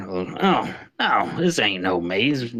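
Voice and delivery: a hint of an old shrub man, slow; lightly voiced old bush; older man voice. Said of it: "an older".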